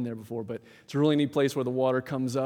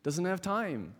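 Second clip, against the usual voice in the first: pitched up, dismissive brush-off; disciples shooing away; 6 semitones higher than usual. Retold or imitated. Preacher voicing disciples turning children away, pitched-up dismissive brush-off. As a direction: shoo them off like busy gatekeepers. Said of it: "The disciples".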